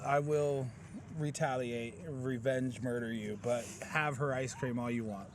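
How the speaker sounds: mock threat. Joking threat over ice cream.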